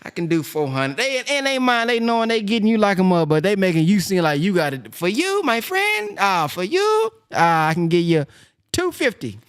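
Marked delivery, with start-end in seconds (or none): 0.0-1.0 mock pawnbroker. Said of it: "They be like". 4.9-9.4 a hammed-up pawn shop dealer haggling; hammed-up pawnbroker. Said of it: "They be like".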